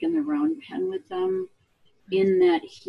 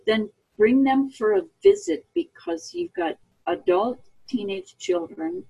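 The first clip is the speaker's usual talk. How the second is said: light folksy hillbilly twang, lower; 6 semitones lower than usual. Retold or imitated. Mother to caller, in a light hillbilly twang. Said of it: "that's my hillbilly voice".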